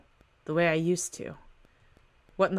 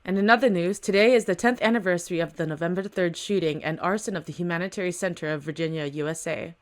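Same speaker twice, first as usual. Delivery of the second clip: steady newscaster read; news read. Acted. Reading the comic's news report as a newscaster. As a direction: read it like an anchor on the evening news.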